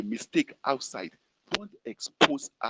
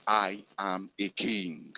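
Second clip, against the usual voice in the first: call to repeat; 5 semitones lower, slower than usual. Shown as a demonstration. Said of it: "repeat after me".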